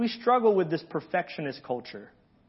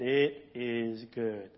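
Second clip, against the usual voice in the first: deep solemn God voice; 6 semitones lower, 8 dB quieter, much slower than usual. Pretend. God pronouncing day good.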